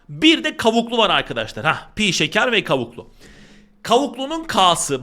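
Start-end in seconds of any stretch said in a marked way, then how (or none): 3.8-5.0 "Kavuklunun K'sı" slow, with the K hit hard; slow teacher emphasis on "K'sı"; stress on the K. Shown as a demonstration. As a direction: lean on the K of "K'sı". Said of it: "bakın K'lar baya baya iş görecek".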